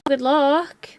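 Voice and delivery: breathy whispered send-off; whispered good luck. Real, not acted. Wishing her friend luck with the reinstall, whispered. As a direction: whisper it like a secret blessing.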